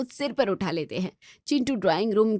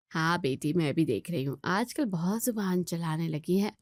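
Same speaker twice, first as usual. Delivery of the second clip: hushed gossip; 5 semitones lower, 5 dB quieter than usual. Acted. Mother murmuring to her daughter about the daughter-in-law, hushed gossip. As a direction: lower and softer, mother gossiping in a hush. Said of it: "अपनी कानाफूसी में".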